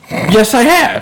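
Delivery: high, insistent defensive reply. Real, not acted. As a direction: insist it indignantly. Defending his homemade mac and cheese.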